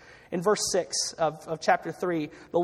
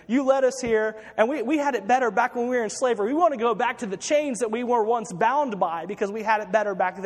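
imitated crowd complaint, pitched up; mock whining; 3 semitones higher than usual. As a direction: grumble in mock self-pity. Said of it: "You know, boo-hoo".

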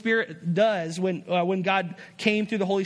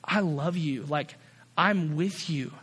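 fatherly comfort; 4 semitones lower, slower than usual. Acted. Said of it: "like a father talking to his son".

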